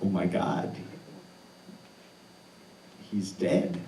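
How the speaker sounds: stunned inner thought. Retold or imitated. Frozen at the cliff top, thinking it to himself, hushed shock. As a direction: say it like the words barely make it out. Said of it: "stand there and think to myself".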